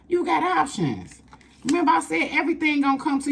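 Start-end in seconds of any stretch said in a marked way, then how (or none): 0.1-1.2 much higher, slow and sing-song; sing-song high emphasis; high cooing emphasis. Shown as a demonstration. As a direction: coo "You got options" way up high and slow.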